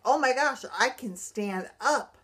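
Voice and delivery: thrilled retold exclamation; amazed joy. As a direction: relive the moment you realise you can stand. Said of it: "And I was like".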